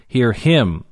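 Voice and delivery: "him" firmly stressed with a falling tone; emphatic HIM. Shown as a demonstration. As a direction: press on "him", then let it drop. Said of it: "That's emphatic too".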